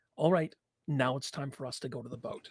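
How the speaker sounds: hushed, barely-there, very soft half-whisper. Speaking in character to a hidden companion during a fire: half-whispering very softly. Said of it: "I whisper very softly".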